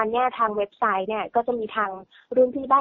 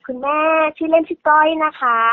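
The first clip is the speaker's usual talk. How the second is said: smiling voice; 6 semitones higher, 6 dB louder than usual. Real, not acted. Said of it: "เสียงสดใสทีเดียว".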